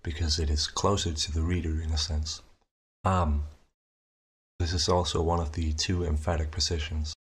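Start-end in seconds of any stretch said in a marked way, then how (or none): 3.1-3.4 a clear, spoken "Am", one syllable; Am said as a demo. Shown as a demonstration. Tutor demonstrating the proximal vowel, clear "Am". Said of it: "I call this a proximal position".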